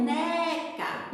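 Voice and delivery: "neca" with the first syllable held long; stretched stressed syllable. Shown as a demonstration. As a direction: draw out the stressed part of "neca". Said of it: "que se prolongou". ("neca" com a sílaba tônica alongada)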